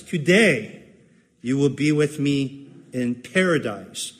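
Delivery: paradise given the weight; stress on paradise. Shown as a demonstration. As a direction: lean on paradise. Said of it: "the emphasis is so often on the word paradise".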